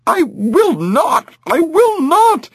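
high, shrill-free wailing protest; heavy hit cry. A narrator's reading. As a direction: cry out against it. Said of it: "even as she protested".

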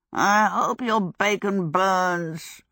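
slow, muffled under a lid. Acted. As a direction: speak slowly as if smothered. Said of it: "muffled under the pan".

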